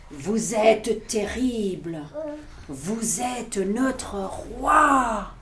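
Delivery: slow, solemn monster homage; bow down to your new king; monsters in awe. Acted. Les monstres acclament Max. (monstres qui acclament, très lentement)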